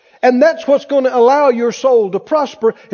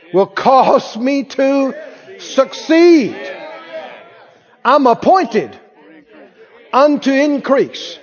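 higher-pitched, emphatic faith confession; preaching declaration; 4 semitones higher than usual. Real, not acted. Preacher leading congregation in blessing confession, declaring. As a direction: declare it in slow, punched phrases.

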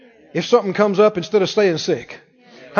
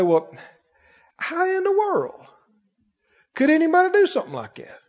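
mock shocked busybody; 7 semitones higher than usual. Preacher mocking a shocked gossip, high and scandalised. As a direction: play the scandalised church gossip. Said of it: "and they'll say".

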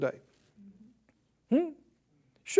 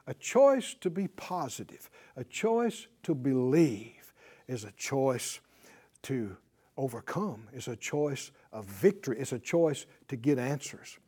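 much lower, softer hushed delivery; 8 semitones lower, 6 dB quieter than usual. Real, not acted. Preacher hushing the congregation about choice. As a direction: drop it to a near whisper.

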